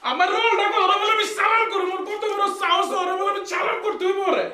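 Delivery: indignant shouting. Acted. Acted quarrel, outraged at demanded salute.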